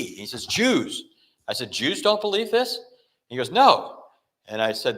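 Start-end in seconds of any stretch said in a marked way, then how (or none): 0.5-1.0 higher, blunt one-word reply; retold blunt answer. Father-in-law Dave answers the preacher, bluntly, pitched higher. 1.7-2.8 higher, incredulous question; can't believe what he's hearing; retold disbelief. Preacher questions his father-in-law, higher and incredulous. 3.5-4.0 higher, louder flat no; retold firm no. Dave denies it to his son-in-law, higher and louder.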